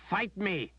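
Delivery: high, tearful cry; desperate demand. A narrator's reading. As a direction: demand it through tears. Berdine demanding a fight.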